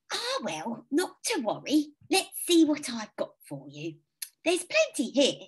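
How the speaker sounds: put-on high kindly old lady; sweet elderly neighbour, lilting. A narrator's reading.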